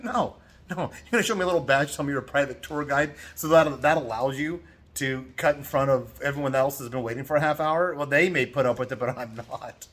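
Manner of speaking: scorn for the little badge; heated telling-off in the queue; retold indignant refusal. Refusing the private tour guide.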